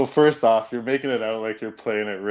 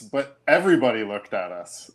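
usual speaking voice

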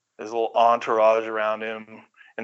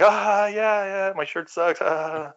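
higher, mock polite laughing along; obligatory laugh; 7 semitones higher, slower than usual. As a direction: imitate fans forcing a laugh at the jibe. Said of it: "gave that kind of obligatory laugh".

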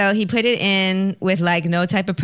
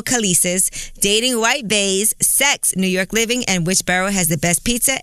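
upbeat host ad read. Acted. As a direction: read it like a radio spot. Reads a sponsor ad.

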